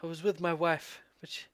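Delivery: weak, quiet, halting voice of a hurt stranger; dazed injured man. Acted. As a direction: barely get the words out, fading.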